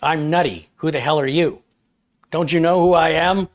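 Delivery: high, loud, offended squirrel voice; indignant squirrel Nutty. Acted. Streamer voicing his squirrel Nutty at the chat, outraged and high. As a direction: squeak it out like an insulted little celebrity. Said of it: "Take two".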